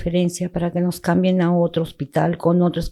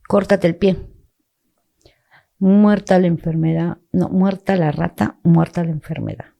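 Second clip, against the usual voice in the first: retold doctor's loud, blunt verdict; blunt dismissal; 6 dB louder than usual. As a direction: imitate a callous doctor, louder than usual.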